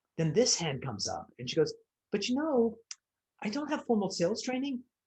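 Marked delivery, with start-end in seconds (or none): 2.1-4.8 acted deflated, drained, weaker tone, pitched higher. Retelling a client admitting doubt: imitating a client's changed, weaker tone. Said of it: "Tone of voice changed immediately".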